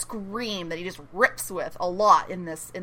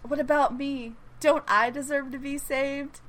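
slightly higher, softer self-pitying plea; mock woe-is-me; 3 semitones higher, 5 dB quieter than usual. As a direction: play up the poor-me act a little. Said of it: "just all like, Woe is me".

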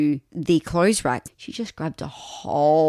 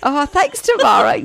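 radio host voice; 10 semitones higher, 6 dB louder than usual. Pretend. Plays along as co-host.

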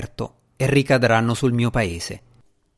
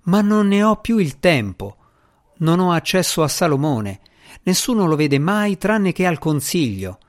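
high, raised desperate cry; shouted; 5 semitones higher than usual. Acted. Asmira shouting her desperation at the djinni. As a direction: keep crying out, pleading. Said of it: "gridò Asmira".

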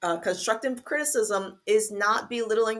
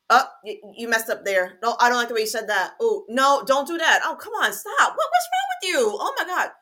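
rising, louder, exasperated scolding that tips into a laughing, crying whine; mock nagging criticism; 4 semitones higher, 5 dB louder, faster than usual. Pretend God scolding a child with exasperated nagging. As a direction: pile on the nitpicks, higher and more fed up with each line. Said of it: "if God came to you and he says".

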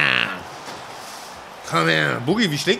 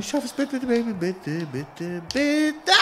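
pleading; 3 semitones higher, 10 dB quieter than usual. Real, not acted. Begging while mashing to get up.

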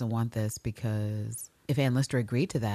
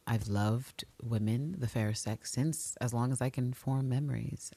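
lower, softer heartfelt declaration; earnest Ann Lister; 3 semitones lower, 4 dB quieter than usual. Retold or imitated. Ann Lister declaring her love of women, low and earnest. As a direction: confess it low and sincere. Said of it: "She's like".

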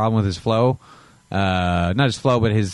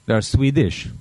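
put-on made-up Swedish accent; slower than usual. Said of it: "That's not a Swedish accent".

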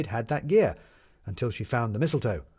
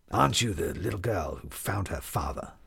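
a hint of a lower, gentle café owner; lightly voiced man; 4 semitones lower than usual. Café owner asking the newsie girl, lightly voiced and a bit lower. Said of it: "he said".

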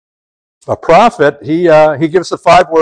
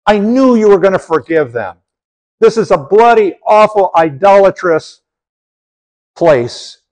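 indignant Jonah. Retold or imitated. Preacher voices angry Jonah at God.

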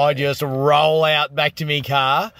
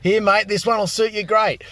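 mock salesman; 6 semitones higher than usual. Caller mimics pushy car salesman.

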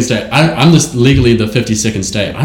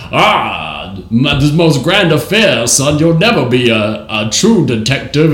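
Benoit Blanc voice; slower than usual. Retold or imitated. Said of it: "Benoit Blanc's going".

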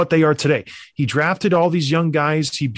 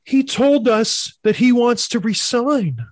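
mock Toronto fan; 5 semitones higher, slower than usual. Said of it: "people in Toronto say".

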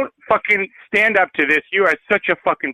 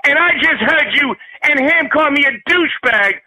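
angry rant; 5 semitones higher than usual. Acted. Angry caller yelling at agent.

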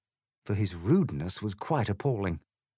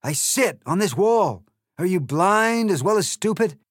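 loud, higher, sneering egg voice; rude Trumpty Dumpty; 11 semitones higher, 8 dB louder than usual. Acted. The egg insults Alice, loud sneering voice. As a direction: sneer it with contempt.

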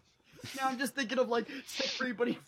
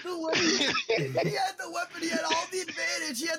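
screaming at a spider; 5 semitones higher than usual. Real, not acted. Mocking spider killer, laughing.

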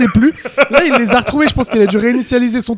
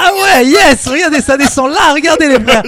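in ice cold water; 6 semitones higher, 4 dB louder than usual. Real, not acted. Ice cold water running down back.

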